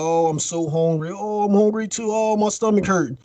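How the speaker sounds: hammed-up moaning, no real tears; mock whining. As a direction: whine like hungry castaways feeling sorry for themselves. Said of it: "they're, like, crying and sitting around".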